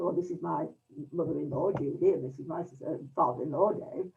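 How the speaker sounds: quiet, faltering polite introductions; stammering introduction. Retold or imitated. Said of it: "this slight stammer, this slight hesitancy".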